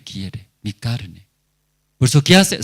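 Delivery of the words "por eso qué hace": raised, forceful preaching question; loud rhetorical question. Acted. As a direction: hammer the question at the congregation. Preacher voicing the sinner's reasoning.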